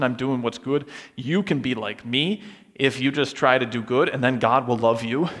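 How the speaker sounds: a touch of self-satisfied preacher; smug moralizer. Retold or imitated. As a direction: brag lightly about being good. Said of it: "what's the attitude that comes with teaching".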